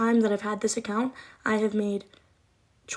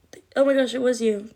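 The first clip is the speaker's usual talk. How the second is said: surprised; 2 semitones higher, 7 dB louder than usual. Real, not acted. Recognizing donor on live stream.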